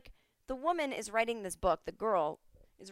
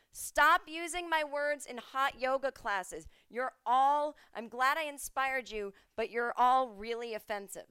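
higher, slower, indignant mock voice; mock Anne Frank scolding; 4 semitones higher than usual. Anne Frank returns to scold hot yoga classes, higher mock indignation. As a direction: scold the yoga teachers as a fed-up ghost. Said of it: "I want Anne Frank to come back and go".

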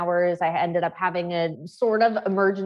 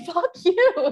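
much higher, laughing mock fuck you; mock bitter mom; 10 semitones higher, 3 dB louder than usual. Guest voicing a struggling mom's resentment, joking. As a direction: snap it out as a joke. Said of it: "you're like".

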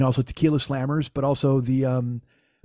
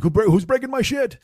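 angry yell; 9 semitones higher, 3 dB louder than usual. Retold or imitated. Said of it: "So he's like".

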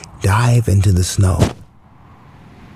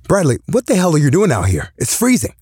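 put-on drunk father; 8 semitones higher, faster than usual.

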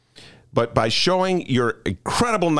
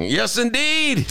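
mock emphatic admission; 10 semitones higher than usual.

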